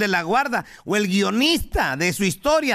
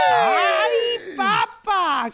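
high surprised cry; 7 semitones higher, much slower than usual. Real, not acted. Reacts to the joke.

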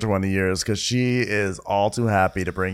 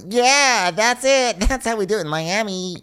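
hyped-up cheer; 11 semitones higher than usual. Acted. Retelling a rapper's motivational quote, hyped-up cheer. Mock motivational shouting as the rapper.

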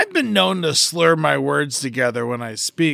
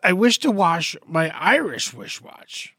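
slow, careful wording; slow tongue twister. Shown as a demonstration. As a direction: ease through each w sound. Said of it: "tongue twister".

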